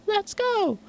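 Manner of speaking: high, hyped-up shout; excited shout. Retold or imitated. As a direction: yell it like a drop hype call. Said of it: "you just hear someone go like".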